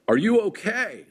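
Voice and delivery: high, loud mock doctor yell; retold doctor yell. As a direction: bark it like a doctor checking a patient. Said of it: "Like, yelling at my family".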